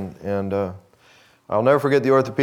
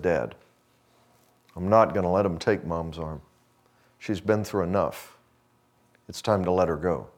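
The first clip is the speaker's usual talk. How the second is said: hushed, choked-up plea; 5 semitones lower, 4 dB quieter than usual. Retold or imitated. Son telling father to let go.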